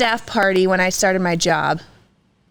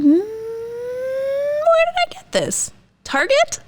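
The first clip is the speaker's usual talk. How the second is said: high puzzled voice; 13 semitones higher, slower than usual. Real, not acted. Puzzled, recalling where bought.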